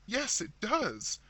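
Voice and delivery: frightened sister agreeing slowly; horror-stricken. A narrator's reading. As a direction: agree in a hushed dread. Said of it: "whose horror-stricken tone matched her sister's".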